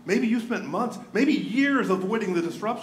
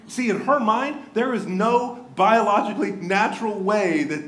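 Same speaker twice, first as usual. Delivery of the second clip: preaching louder; 3 semitones higher, 4 dB louder than usual. Real, not acted. Preacher building to full force.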